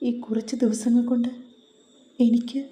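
tearful outburst. Acted. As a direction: pour it all out, on the verge of crying. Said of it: "പൊട്ടിക്കരഞ്ഞു".

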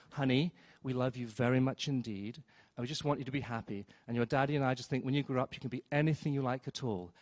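put-on soft, hushed parent cooing to a child; doting parent. Parents leaning down to their child, soft cooing. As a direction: coo it gently like a doting parent.

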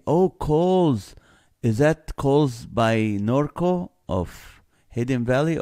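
sudden high realization; oh, it clicks suddenly; surprised. Real, not acted. Sudden recognition of store.

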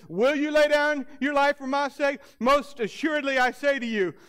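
Jesus warning. Acted. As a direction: ask it like a solemn challenge. Preacher voicing Jesus' warning.

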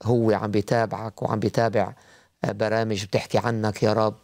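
earnest spoken prayer; praying aloud. Acted. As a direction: pray it from the heart. Leads prayer for caller.

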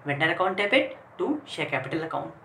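very slow, each word separate; teacher reading out an entry slowly; slow dictation. Shown as a demonstration. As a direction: dictate the entry for the class to copy. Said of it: "तो हम entry क्या हो गई".

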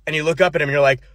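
usual speaking voice

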